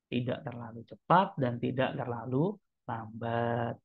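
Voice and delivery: measured tempo. Shown as a demonstration. Demonstrating measured tempo while teaching it.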